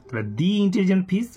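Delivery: "the" pronounced "dee" before intelligent. Shown as a demonstration. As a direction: say "the" as "dee" because intelligent starts with a vowel. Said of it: "উচ্চারণটা দি করবো".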